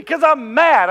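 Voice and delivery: loud, high indignant retort; retold childish outburst; mad kid. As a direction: shout back like an angry child. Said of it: "And I'm so mad".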